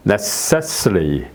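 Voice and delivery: necessary said very slowly; slow demo. Shown as a demonstration. Teacher modelling necessary slowly. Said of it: "쉬와 어로 발음이 되죠".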